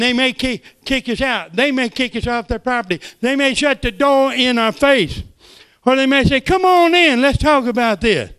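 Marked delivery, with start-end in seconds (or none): 3.2-8.3 high, loud preaching build; rising preacher shout; preaching climax. Acted. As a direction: rise to a loud high peak.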